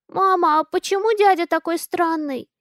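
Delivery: put-on a child blurting out loud; loud child question. A narrator's reading. Daughter asks mom about the odd man, loudly. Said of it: "Громко интересуется Алиса".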